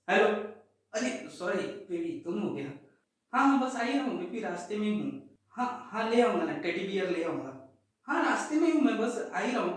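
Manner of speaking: quiet lover's excuses on the phone; hushed phone call. Pretend. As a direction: sneakily reassure the new girlfriend on a call. Sneaky phone call to a girlfriend.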